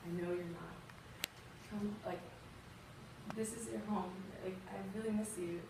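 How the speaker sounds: soft imitation of a caring mother; tender comforting. Mother telling her homesick daughter to come home, tender comforting. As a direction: coax her gently, quietly.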